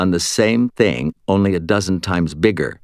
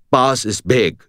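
lightly voiced dim henchman; a touch of a slow-witted lackey; simple-minded minion; 5 semitones higher, 3 dB louder than usual. A narrator's reading. Dim minion answering Murphy, simple-minded.

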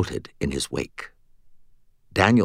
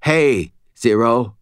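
higher-pitched, strained casual greeting; trying to sound casual; 4 semitones higher, 4 dB louder, slower than usual. A narrator's reading. Dangling Fitz greeting Zero, forced casual. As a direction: act casual while being held. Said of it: "trying to sound casual".

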